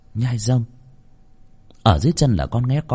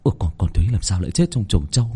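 halting, stammered guesswork, rising at the end; bewildered inner wondering; 2 semitones higher than usual. Acted. Hunchback servant wondering how she died, bewildered. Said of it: "trong đầu tự hỏi".

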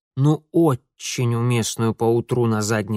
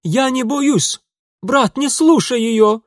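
put-on much higher, loud boyish wail; yelling; 12 semitones higher, 7 dB louder, slower than usual. Boy yelling at his brother not to listen, high loud wail. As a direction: howl it out, pushing her away. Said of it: "вопил Ингвар".

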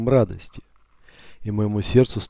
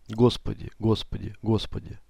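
fading awe; 6 dB quieter than usual. Acted. Overwhelmed narrator repeats, fading.

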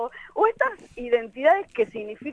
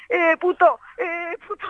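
imitando a un hombre que grita, agudo; grito burlón que pierde fuerza al repetirse; grito imitado; 5 semitones higher, 3 dB louder than usual. Retold or imitated. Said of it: "un tipo así ... que me gritaba". (imitación de un grito desde el fondo)

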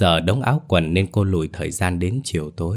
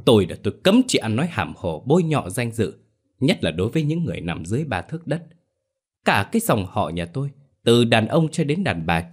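fast, indignant rebuke, pitch raised; angry scolding; 2 semitones higher than usual. Acted. Clan elder berates the widow angrily for her slander. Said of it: "vỗ bàn mắng mỏ".

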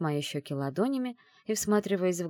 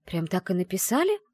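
surprised; 4 semitones higher, 4 dB louder than usual. Acted. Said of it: "удивилась я".

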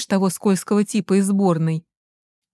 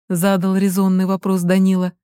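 ordinary delivery

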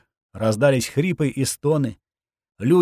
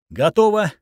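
gritted teeth, tense and clipped; through gritted teeth; 6 semitones higher, 3 dB louder than usual. A narrator's reading. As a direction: force it out through clenched teeth. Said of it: "стиснув зубы".

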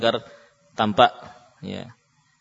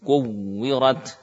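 kuwirat slow, pressing at the lips; nabr on the wawu; much slower than usual. Shown as a demonstration. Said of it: "Memberikan tekanan pada makhraj bibir". (kuwirat dengan tekanan di bibir)

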